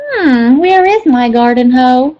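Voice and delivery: lightly voiced Rabbit wondering. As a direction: wonder aloud where it went. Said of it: "he wondered".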